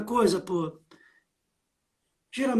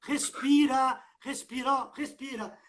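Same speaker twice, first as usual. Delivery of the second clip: calming; 3 semitones higher, 4 dB quieter than usual. Acted. Calming a panicked friend.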